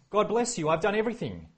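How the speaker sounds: Saul's fake cheer. Saul voiced in summary.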